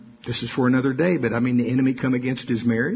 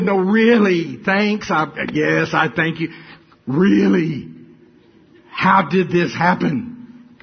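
amazed; 3 semitones higher, 4 dB louder, slower than usual. Retold or imitated. Preacher's stunned reply to pastor.

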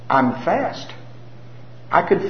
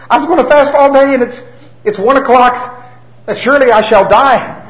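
loud, high mock anguish; hammed-up tragic wail; melodramatic despair; 13 semitones higher, 10 dB louder than usual. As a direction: overplay dying of hunger. Mocking the quitter's drama.

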